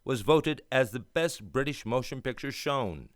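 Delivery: put-on grand old-time radio announcer read. Announcer presenting tonight's play to listeners, grand and polished. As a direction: sell the evening's play with polish.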